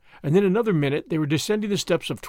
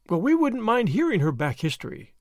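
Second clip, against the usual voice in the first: guardedly; 6 semitones higher than usual. A narrator's reading. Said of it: "said Tuppence guardedly".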